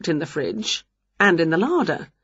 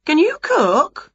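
slow high lady voice; 11 semitones higher, slower than usual. Acted. Dinner lady asks.

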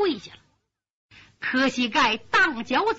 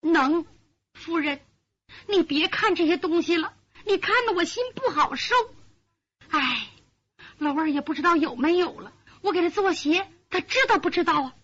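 put-on young maid, sighing; 4 semitones higher than usual. Maid voiced, higher.

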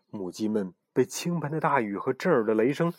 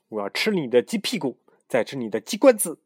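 crazed shout; 3 semitones higher, 3 dB louder than usual. Acted. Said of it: "嘶喊道".

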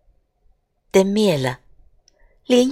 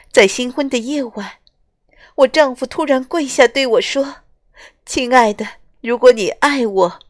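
put-on higher pleading young woman's voice; tearful bride; 5 semitones higher than usual. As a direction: tell it close to tears. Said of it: "螳螂姑娘流着眼泪".

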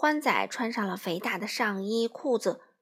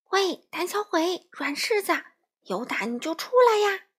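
high, taunting call; deliberate provocation; 8 semitones higher than usual. A narrator's reading. Crow baiting the wolf out of the castle, provocative jeer. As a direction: goad him into coming out. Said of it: "花袜子故意挑衅".

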